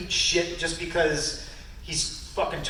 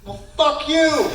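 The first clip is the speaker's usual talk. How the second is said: mock retort; 11 semitones higher, 4 dB louder, slower than usual. Retorting to the trainer.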